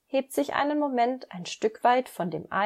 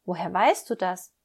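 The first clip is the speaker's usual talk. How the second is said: puzzled surprise; 4 dB louder than usual. Acted. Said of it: "fragt Emil verdutzt".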